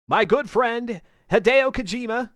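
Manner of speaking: lightly voiced hype announcer intro; Jeff Keighley voice. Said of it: "I don't sound anything like, uh, Keighley".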